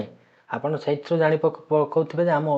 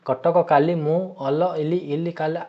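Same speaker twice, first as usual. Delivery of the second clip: higher, slow scrambled words said as mock gibberish; jumbled nonsense sentence; 4 semitones higher, 3 dB louder than usual. Shown as a demonstration. Teacher showing students a meaningless jumbled sentence, mock gibberish. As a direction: garble "Cuttack କାଲି ମୁଁ ଅଲ ଇଲି ଇଲି କାଲା" slowly and higher, words out of order. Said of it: "ଏମିତି କହିଲେ କ'ଣ ବୁଝିବେ ଆପଣ".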